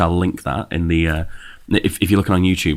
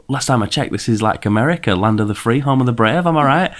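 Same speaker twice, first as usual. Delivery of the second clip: sarcastic; 4 semitones higher than usual. Retold or imitated. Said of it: "And I was like".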